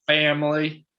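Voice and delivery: mock Southern drawl on Family, pitched high and loud; Southern accent. Co-host mocking the coach's sudden Southern accent, high and loud. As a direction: imitate Brian Kelly's new Southern accent. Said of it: "all of a sudden he had a Southern accent".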